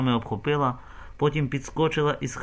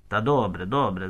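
gentle placating; 3 semitones lower than usual. Acted. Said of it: "Залусківський лагідно".

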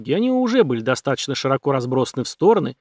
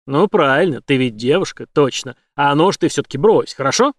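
a touch of mocking command; lightly voiced villain talking down to her; taunting villain Ford; 4 dB louder than usual. Ford tells Jane to drop the knife, lightly taunting.

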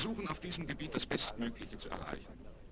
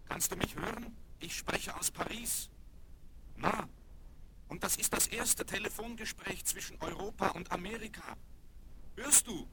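raised, higher voice straining to be heard; calling out on phone; 7 semitones higher than usual. Acted. Son calling his mother from Paris, raised and higher to be heard. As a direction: push the voice across a bad long-distance line.

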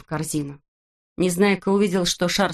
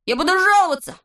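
much higher and louder protest; indignant shout; 12 semitones higher, 4 dB louder, faster than usual. A narrator's reading. Neznaika dragged out by Znaika, high loud indignant shout. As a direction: yell it as he's dragged out. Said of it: "кричал Незнайка".

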